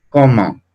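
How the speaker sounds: comment ending nasal, kɔmɑ̃; French comment. Shown as a demonstration. Teacher to class, modelling French comment. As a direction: end comment in the nose.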